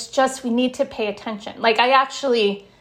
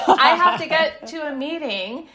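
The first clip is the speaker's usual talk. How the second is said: raised, higher-pitched imitation of a harried parent; mock yell; 6 semitones higher than usual. Mother late for a meeting to her son, mock yell. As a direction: act out impatient yelling without real volume. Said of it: "yelling at him".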